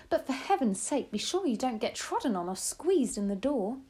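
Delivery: lightly voiced grandmother, eager and plotting; hint of an old lady scheming. Grandmother's voice, long instructions.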